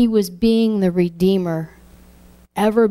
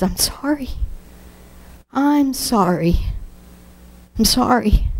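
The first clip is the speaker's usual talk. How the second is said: high, breaking pleas of sorry; tearful apology; 4 semitones higher than usual. Retold or imitated. A preacher reliving the crucifixion, apologizing with a breaking voice. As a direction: plead it through tears. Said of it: "all I could say was".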